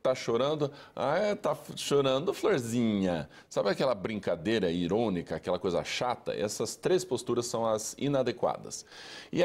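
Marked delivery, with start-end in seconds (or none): 0.9-3.3 mock-teasing sarcasm at a crying child; mocking irony. Mother mocking her crying child, lightly sarcastic teasing. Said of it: "a ironia".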